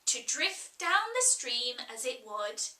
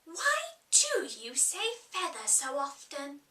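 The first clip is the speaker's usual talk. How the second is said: rather vexed. Acted. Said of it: "rather vexed".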